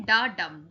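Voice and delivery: quick डा, then a longer डम; stress on डम. Shown as a demonstration. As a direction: say डा short and hold डम. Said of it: "डा फटाक से निकल गया, लेकिन डम में टाइम लगा". (डम पर ज़ोर, डा झटपट)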